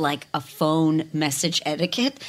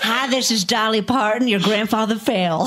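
Celebrity singer Cameo; 3 semitones higher, slower than usual. Pretend. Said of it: "celebrity Cameo parody".

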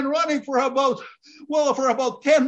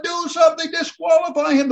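higher yelling crowd, egging on; 6 semitones higher than usual. Retold or imitated. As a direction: shout like an outraged fan. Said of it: "the crowd are going".

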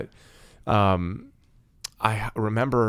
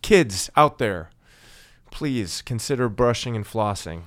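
PSA announcer; slower than usual. Acted. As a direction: address the kids like a public service announcement. Flossing public service announcement.

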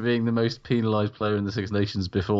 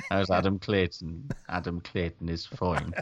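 Alan Partridge; 4 semitones lower, 3 dB quieter than usual. Acted. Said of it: "that Alan Partridge bit with a singer".

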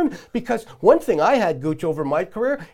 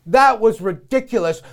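ordinary delivery

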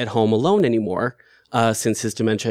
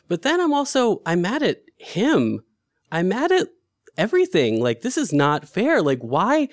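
raised pitch, fast bitter rant about unfairness; real anger; 5 semitones higher than usual. Real, not acted. Angry caregiver venting at her father's illness, higher and heated. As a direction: let the anger rise as you vent. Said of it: "And I'm so incredibly mad".

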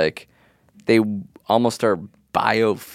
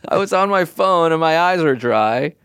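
excited; 6 semitones higher than usual. Real, not acted. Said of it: "don't yell at me".

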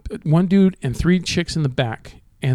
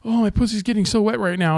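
mock girl voice; 5 semitones higher than usual. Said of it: "this one girl's all".

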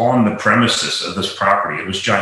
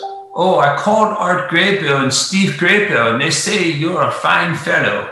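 higher-pitched imitation of a Lebanon County local; central Pennsylvania accent; 7 semitones higher than usual. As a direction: do the Pennsylvania club member's distinctive accent. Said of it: "say in a very distinctive voice".

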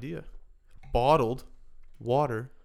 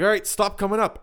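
bus driver announcement; 8 semitones higher, 7 dB louder than usual. Retold or imitated. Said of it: "And he'd be like".

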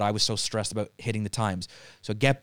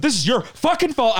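mock scream; 12 semitones higher, 5 dB louder than usual. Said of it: "I was, like, screaming at her".

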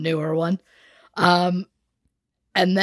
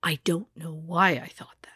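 whispering; 2 semitones lower, 5 dB quieter than usual. Real, not acted. Embarrassed aside.

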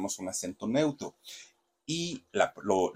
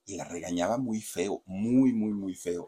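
ordinary talk, nothing marked

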